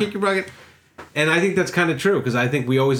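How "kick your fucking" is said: higher-pitched mock redneck rant; hick rant. Retelling a comedian's joke, ranting as a rural hick. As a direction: play up a country hick going off, pitched high. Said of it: "that hick accent that you do".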